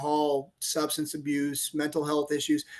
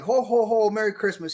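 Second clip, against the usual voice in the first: a light jolly Santa ho ho ho, a bit louder; imitating Santa's greeting, mildly hammed-up; a hint of jolly Santa; Santa Claus; 3 semitones higher, 3 dB louder than usual. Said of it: "He totally changed into Santa Claus".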